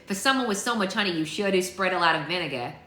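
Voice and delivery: lightly acted sassy storybook girl; playful character-voice needling; Lucy, witty jab. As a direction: toss out a teasing dig in character.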